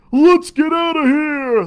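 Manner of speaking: high loud panicked shout. Acted. Rival pirates shout as they flee in a panic. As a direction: yell to flee. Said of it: "they shouted".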